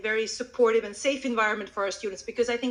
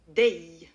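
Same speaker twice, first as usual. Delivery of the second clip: "Day" drawn out, low and loud; long, emphatic "Day" dropping in pitch; stressed, prolonged word; 4 semitones lower, 6 dB louder than usual. Shown as a demonstration. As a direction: lean on "Day" and stretch its vowel. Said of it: "where I prolong the sound".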